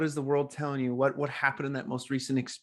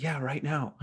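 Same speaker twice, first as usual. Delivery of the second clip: calm, easy reply; super chill; 2 semitones higher, 4 dB quieter than usual. Retold or imitated. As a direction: say it like nothing's wrong. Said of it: "Super chill, right?".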